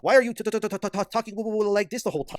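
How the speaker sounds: high, loud mock stammer on every t; mocking stutter. Mocking the streamer's trembling voice with a stammer. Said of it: "why is this guy's voice trembling".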